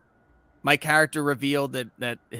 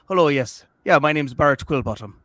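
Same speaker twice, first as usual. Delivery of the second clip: a hammed-up bad Irish accent that barely shifts the voice; terrible Irish accent; 5 dB louder than usual. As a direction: introduce yourself in a lightly done, clumsy Irish accent. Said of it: "a terrible Irish accent".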